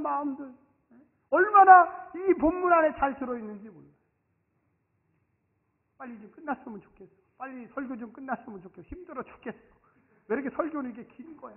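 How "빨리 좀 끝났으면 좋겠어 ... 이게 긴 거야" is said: mock bored grumble. Preacher voicing a bored churchgoer, soft grumbling. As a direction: mutter it like someone tired of the sermon.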